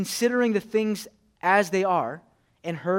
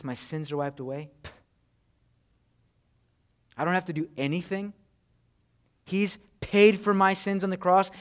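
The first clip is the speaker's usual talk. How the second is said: mock scoffing believer; 4 dB louder than usual. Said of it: "similar to how we do".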